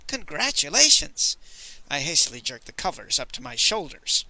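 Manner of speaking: a vain, playful dandy; lightly voiced Moon Boy. Moon Boy's voice.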